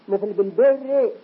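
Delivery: بالبر said slowly with a thin, light R. Shown as a demonstration. Teacher shows a light R in بالبر. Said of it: "ترقق".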